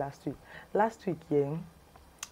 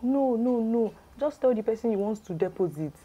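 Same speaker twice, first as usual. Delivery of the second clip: higher-pitched overriding protest; acted insistence; 6 semitones higher than usual. Caller directing a friend at the bank, imitated insistence. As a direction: brush the question aside, pitched up.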